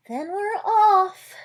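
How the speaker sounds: high, slow little mouse; resigned mouse. Acted.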